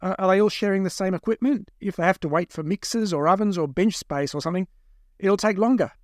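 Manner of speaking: hesitant start, then explaining; reasoning captive. Acted. Captive querying the test question, tentative. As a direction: think it through aloud for the captors.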